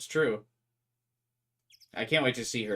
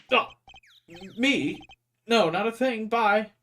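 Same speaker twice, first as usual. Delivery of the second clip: high, loud and flustered; nervous squeak; 10 semitones higher, 8 dB louder, slower than usual. Acted. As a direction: back away in a panic. Apollo nervously backing off.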